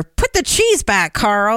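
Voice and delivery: high, slow scolding robot voice; judgy robot fridge. Pretend. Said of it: "gonna say it in that voice".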